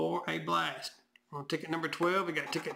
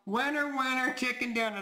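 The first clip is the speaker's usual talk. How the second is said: excited; 5 semitones higher than usual. Real, not acted. Celebrating the win.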